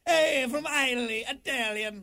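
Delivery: lightly lampoon a clueless speaker; mock dumb guy. Mocking eye-talian speakers.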